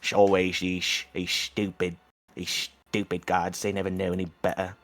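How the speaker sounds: low, soft scornful mutter; scoffing under breath. Acted. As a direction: sneer quietly at the gods. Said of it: "He'd scoff under his breath".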